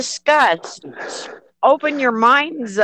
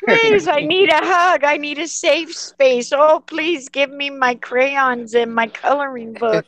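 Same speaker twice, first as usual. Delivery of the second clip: mock whiny; 2 semitones higher than usual.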